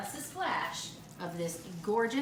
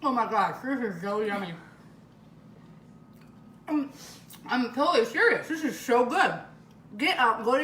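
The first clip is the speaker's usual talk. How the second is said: excited raving; 2 semitones higher, 6 dB louder than usual. Real, not acted. Raving about the dessert.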